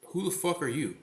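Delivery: retold confrontational snap, pitch lifted; offended outburst. Woman flips the switch on him, retold as an offended outburst. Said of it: "she flips that switch on me".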